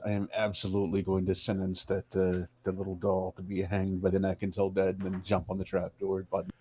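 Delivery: measured, even pronouncement; mock stern. Player sentencing the little doll to hang, mock-stern. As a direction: pass sentence like a mock judge. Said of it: "In my sternest voice".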